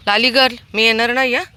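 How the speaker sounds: high, loud pet-talk coaxing; coaxing the dog. Real, not acted. Feeder coaxes Lali to eat, high loud pet talk. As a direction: playfully warn the dog she won't come back.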